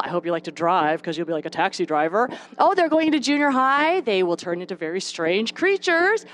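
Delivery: doom-laden naysayer, lightly acted; Target lady. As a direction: greet the news, then drop into discouragement. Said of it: "the Target lady who says things like this".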